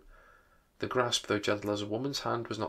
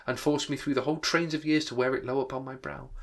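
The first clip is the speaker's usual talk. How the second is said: exclaiming ghost; 4 semitones higher than usual. Acted. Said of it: "exclaimed the ghost".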